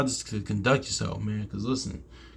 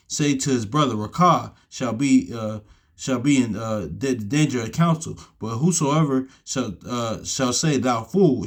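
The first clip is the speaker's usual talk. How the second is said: reading the verse aloud, a bit raised and measured; scripture reading. Acted. Preacher reading Matthew chapter five to his listeners, raised reading voice. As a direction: read it like Bible verse from the pulpit.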